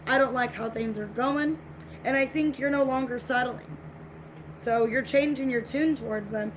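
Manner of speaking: normal talking voice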